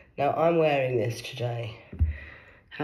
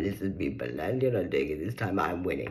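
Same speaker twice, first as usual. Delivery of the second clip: lower, stern address; lightly voiced cosmic warrior; 8 semitones lower than usual. Lightly lower stern voice warning Beland. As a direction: warn him down low.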